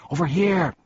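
high, loud beckoning call; calling advice. A narrator's reading. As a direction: call out to draw them over. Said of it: "advised the voice".

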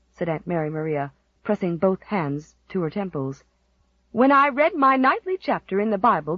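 gloomy prophet of doom; ominous. Acted. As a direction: relish the bad omen. Aunt ominously predicting doom.

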